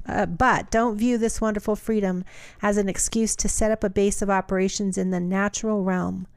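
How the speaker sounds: measured reading aloud of a Bible passage; steady, deliberate Bible reading; scripture reading. Acted. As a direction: read the letter out evenly, phrase by phrase.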